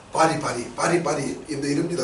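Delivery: 빠리 for 빨리, no l sound, Japanese style; Japanese accent Korean. Retold or imitated. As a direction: say 빠리 like a Japanese learner. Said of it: "일본 사람들은 이 발음이 없어가지고".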